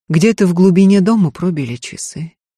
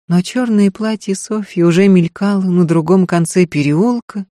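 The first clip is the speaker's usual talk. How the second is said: plain reading voice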